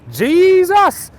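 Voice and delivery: high, drawn-out exclamation of disbelief; amazed outburst; astonished cry. Acted.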